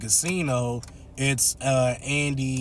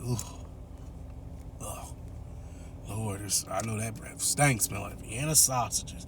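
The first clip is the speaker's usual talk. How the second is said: softer, grossed-out muttering; disgusted groan; 3 semitones lower, 8 dB quieter than usual. Retold or imitated. Narrator recoils from Mercedes's stinking breath, disgusted. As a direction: wrinkle your nose at the smell.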